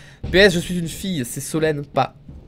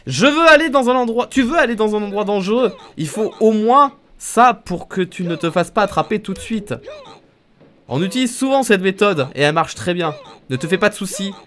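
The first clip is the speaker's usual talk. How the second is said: raised, louder voiced game character; 5 semitones higher, 4 dB louder than usual. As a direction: read it as the cheerful sidekick, a bit slowed at the end.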